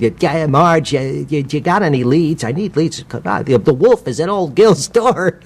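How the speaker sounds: lightly voiced desperate salesman; Gil voice. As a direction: push for leads, forced cheer over panic. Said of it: "based him on ... Jack Lemmon played".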